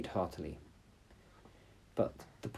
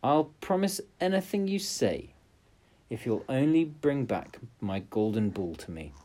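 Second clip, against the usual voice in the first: pleading princess; 4 semitones higher than usual. Acted. Princess begging the frog.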